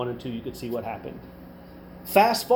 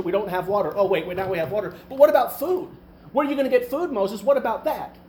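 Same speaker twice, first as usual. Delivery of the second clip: higher-pitched imitated griping; mock complaining; 4 semitones higher than usual. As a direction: act out a grumbler piling up grievances. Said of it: "And, and they're complaining".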